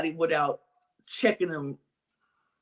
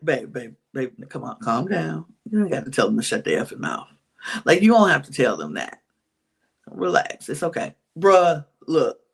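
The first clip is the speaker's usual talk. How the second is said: lower, calming "Babe, babe, babe"; soothing partner; 5 semitones lower than usual. Retold or imitated. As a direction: talk them down gently, like calming a heated partner. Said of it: "Be like".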